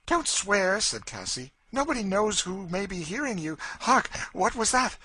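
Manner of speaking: lightly played eerie warning; Cassie's spooky warning. A narrator's reading. Cassie warns Legree someone may be listening, eerie.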